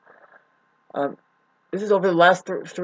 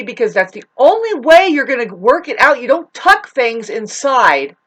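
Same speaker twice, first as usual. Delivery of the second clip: angry rant; 3 semitones higher, 5 dB louder than usual. Real, not acted. Ranting at disliking viewers.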